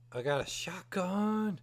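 slow breathless whisper of delight; excited whisper. Real, not acted. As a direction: whisper it like a secret treasure. Excited over finding a shotgun.

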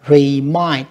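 slow Remind with MIND stressed and held level; second-syllable stress. Shown as a demonstration. Teacher marking word stress, Remind slowly stressed on mind. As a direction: separate Remind, weight on mind. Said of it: "cuối cùng đọc ngang âm hai".

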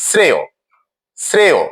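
শ্রেয় ending in a clear "o"; pronunciation demo. Shown as a demonstration. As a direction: say শ্রেয় as "sreyo", with falling pitch. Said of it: "ও এর মতো উচ্চারণ হয়".

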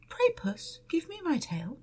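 high, squeaky little mouse voice; pleading mouse. Acted. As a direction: beg like a tiny mouse. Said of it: "said the cat".

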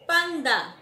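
"tiempo" agudo y fuerte, bien separado; dictado marcado. Shown as a demonstration. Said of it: "Y la última palabra". ("tiempo" dictado con fuerza)

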